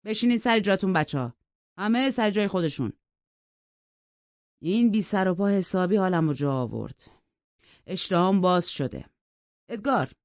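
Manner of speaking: put-on gruff, jovial host settling the children; hearty call to order. Hindley orders the children back to their seats. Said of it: "با صدای بلند گفت".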